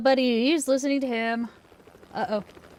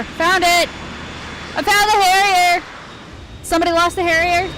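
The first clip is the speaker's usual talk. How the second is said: excited; 5 semitones higher than usual. Real, not acted. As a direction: announce it like a happy discovery. Excited at finding the jet.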